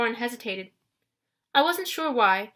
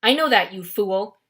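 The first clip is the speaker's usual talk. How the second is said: loud, booming rebuke; a general booming at his underling; 5 dB louder than usual. Acted. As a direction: boom it at the fool. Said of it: "boomed the man".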